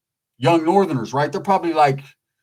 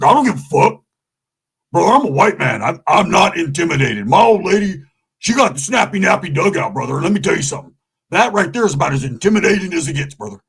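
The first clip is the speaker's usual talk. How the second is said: louder, cocky biker voice; tough white biker; 4 dB louder than usual. Retold or imitated. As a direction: puff up like a fearless redneck. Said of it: "Roach is like".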